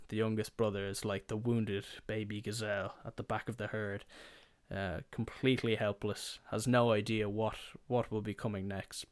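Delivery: ordinary delivery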